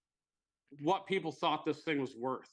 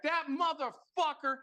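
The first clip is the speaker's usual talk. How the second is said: high, drawn-out mock Boston outrage; put-on Boston accent, stretching the curse; 11 semitones higher than usual. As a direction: imitate an angry Bostonian, pitched way up. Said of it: "that whatever Boston accent".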